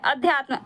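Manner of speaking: अध्यात्म with a short first a, ad-hyaatm; correct pronunciation. Shown as a demonstration. Teacher giving students the correct form. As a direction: open अध्यात्म on a short a, not a long aa. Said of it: "जबकि ये गलत है".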